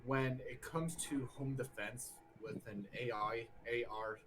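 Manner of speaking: slightly slurred, tipsy speech; slurred from beer. Real, not acted. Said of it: "I'm slurring my words 'cause of the beer".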